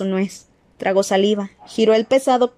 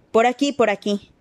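panting. Acted. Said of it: "indicó el señor Weasley jadeante".

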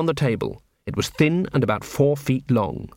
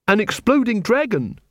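put-on lightly raised young woman's voice; a hint of Angua, thoughtful; young female guard offering a guess; 8 semitones higher than usual. A narrator's reading. Angua's voice in the story.

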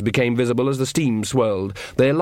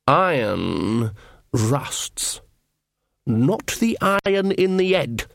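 very slow, lordly scorn; drawn-out scornful pronouncement; snorting horned king; 2 semitones higher, much slower than usual. A narrator's reading. Horned king scorns witch's iron, slow and lordly. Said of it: "the king snorted".

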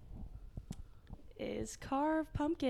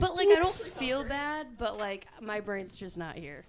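hungover. Real, not acted. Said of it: "so painfully hungover".

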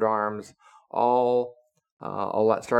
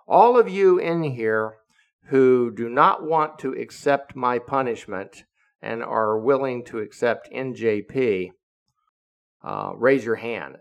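louder, raised-voice command; commanding address; 2 semitones higher, 5 dB louder than usual. Retold or imitated. Captain ordering the room of sailors, commanding. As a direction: announce it to the whole room.

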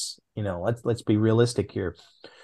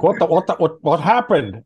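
retold boss yelling; 6 semitones higher, 6 dB louder than usual. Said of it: "He's like".

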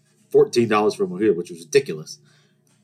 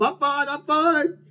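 embarrassed assurance; slower than usual. Retold or imitated. Fallen kids jump back up.

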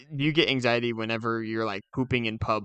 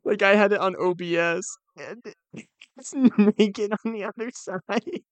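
high, loud fake upset; pitched-up, put-on dismay; feigned distress; 8 semitones higher, 4 dB louder than usual. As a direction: sell the prank with mock horror. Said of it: "to really sell it up".

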